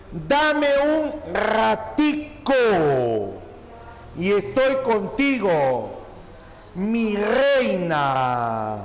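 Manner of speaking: frase leída muy despacio, alargando cada palabra; lectura lenta y marcada. Shown as a demonstration. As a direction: recitar el ejemplo despacio, como dictando. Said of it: "se aprecian en la siguiente expresión". (lectura pausada del ejemplo, sin dejo cubano)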